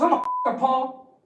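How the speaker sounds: squeaky hyped-up boasting guy; quoting a hyped-up guy in a high squeal; high mock dude voice.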